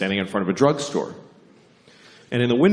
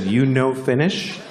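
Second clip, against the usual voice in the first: put-on 1 Japanese accent; 3 semitones higher, slower than usual. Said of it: "I have to do the accent".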